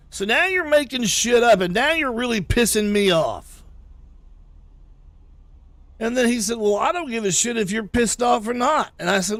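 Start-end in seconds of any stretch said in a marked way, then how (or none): 0.1-3.6 retold anger. Retold angry phone argument with boss. 6.6-8.9 mock shout. Boss shouting back in argument.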